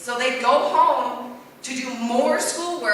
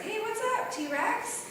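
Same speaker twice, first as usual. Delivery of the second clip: dinosaur voice; 11 semitones higher, 5 dB quieter, slower than usual. Pretend. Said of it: "Okay, I'm a Brontosaurus".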